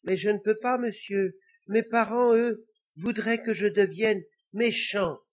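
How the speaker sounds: high-pitched little devil, protesting; earnest little devil. Acted. Little devil explaining his parents' wishes, high and earnest. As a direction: plead your case in a small, high voice.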